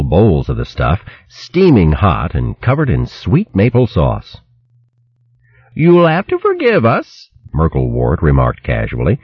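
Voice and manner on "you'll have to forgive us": high, scolding country woman voice; shrill hedgehog wife scolding. Acted. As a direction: berate him like a fierce old hog wife. Merklewort to guests.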